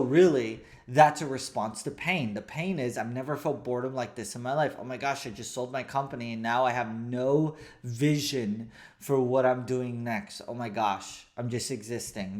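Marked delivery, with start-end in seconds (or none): 3.0-12.4 low, subdued, mildly despondent; hushed, lightly acted dejection; acted depression. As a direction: voice a bored person losing direction, softly. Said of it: "so they get depressed".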